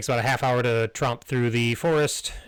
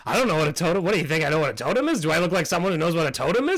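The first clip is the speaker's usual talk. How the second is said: high, eager squeaky bat insisting on friendship; squeaky fawning bat; 5 semitones higher, much faster than usual. Acted. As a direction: pitch way up and gush loyalty. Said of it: "he's like".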